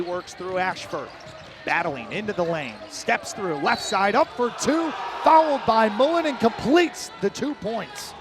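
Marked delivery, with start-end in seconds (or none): 4.1-8.1 excited call. Real, not acted. Call of a made basket and foul.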